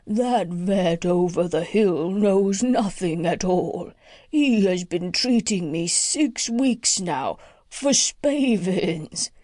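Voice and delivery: slow, measured horse voice; lightly voiced horse. Plough horse complaining to the doctor, slow and heavy. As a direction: let the old horse plod through his complaint.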